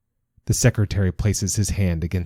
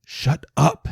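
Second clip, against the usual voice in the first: acted retort; 9 semitones higher than usual. A narrator's reading. Sister answers the yelling secretary, high-pitched retort.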